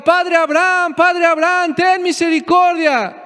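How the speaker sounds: a rich man's pleading cry from torment; crying out for mercy. Retold or imitated. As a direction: beg from torment, voice lifted. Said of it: "le gritaba".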